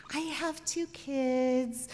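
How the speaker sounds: hushed anxious self-talk; whispered worry. Retold or imitated. Mother waiting on the pier, worried whisper. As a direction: whisper it to yourself, fretting.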